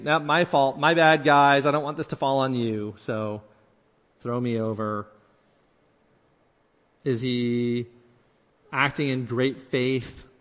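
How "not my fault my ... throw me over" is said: altruistic. Acted. Jonah taking the blame before the sailors, altruistic. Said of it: "altruistically saying".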